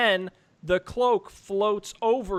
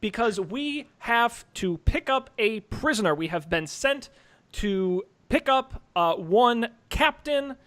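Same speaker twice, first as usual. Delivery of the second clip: measured, pompous official pronouncement; slow official wizard. Acted. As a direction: speak slowly like a stern official. Official wizard addressing guard.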